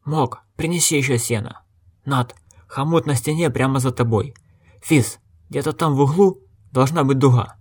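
lightly voiced innkeeper giving orders; a hint of a bossy father barking chores; commanding innkeeper. A narrator's reading. Innkeeper ordering his sons about the stable. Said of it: "командовал сыновьям трактирщик Окен".

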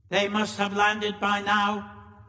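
high, slow alien monotone; monoid leader. A narrator's reading. Monoid leader addressing his deputy.

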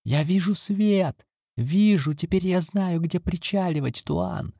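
high, ringing shout from the boat; shouted call. Acted. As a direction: call out across the water, excited. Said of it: "кто-то крикнул".

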